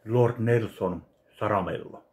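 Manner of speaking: usual speaking voice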